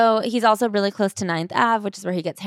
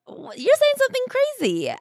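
squeaky, much higher outraged disbelief; mock disbelief. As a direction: react like he just said something wild. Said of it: "when you're like".

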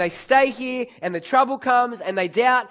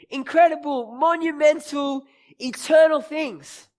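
higher, slower, swelling words; building emphasis; 6 semitones higher, 4 dB louder than usual. Real, not acted. Preacher listing God's works to the church, rising emphasis. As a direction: lift each word bigger than the last.

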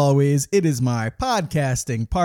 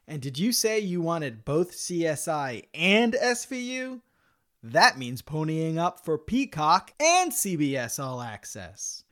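ad read. Acted. Fake streaming service ad.

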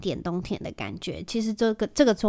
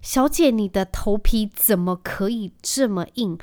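mild amazement; 4 dB louder, slower than usual. Retold or imitated. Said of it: "她就说".

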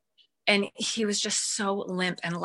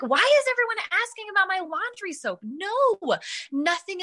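snapped; 11 semitones higher than usual. Retold or imitated. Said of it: "I kinda snapped at her".

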